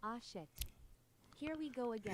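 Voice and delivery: tired, been-here-before quoting of a famous game line; San Andreas meme quote. Retold or imitated. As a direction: sigh it out like the resigned hero of the meme. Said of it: "I get the G T A San Andreas meme in my head".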